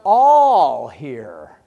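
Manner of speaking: booming all here; loud proclamation. Retold or imitated. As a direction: call out all here to the whole room. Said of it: "he says".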